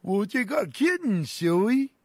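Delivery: high sidekick voice. Acted. Sidekick delivers punchline.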